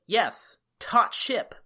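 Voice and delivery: measured mock acceptance, word by word; blandly agreeing. Co-host imitating everyone going along with it, mock-agreeable. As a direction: imitate people calmly accepting nonsense. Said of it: "Everyone else is like".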